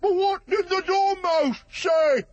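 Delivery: very high, eager question; curious juror. Acted. Juror voiced.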